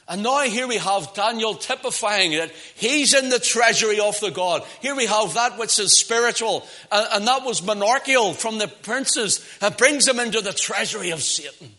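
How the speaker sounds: insistent sermon delivery; preaching. Real, not acted. Preacher explaining Daniel in Satan's treasury, insistent preaching. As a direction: press the point home from the pulpit.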